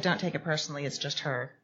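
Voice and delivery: soft, low reassurance; reassuring. Retold or imitated. Calming a hurt new coworker, softly. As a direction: ease her worry quietly. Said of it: "I said".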